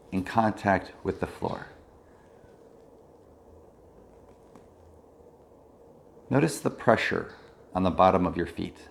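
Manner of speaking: calm body-scan guidance with long pauses; measured mindfulness-teacher voice, leaving space between phrases; guided meditation. Real, not acted. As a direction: guide attention through the body, unhurried.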